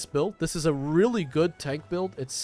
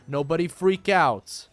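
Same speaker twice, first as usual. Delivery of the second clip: firm; 4 dB louder than usual. Shown as a demonstration.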